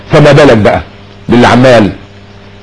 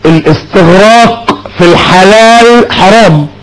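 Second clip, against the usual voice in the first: slow and weighty, every word placed; solemn maxim; slower than usual. Real, not acted. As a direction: deliver it like a ruling. Preacher states his key maxim.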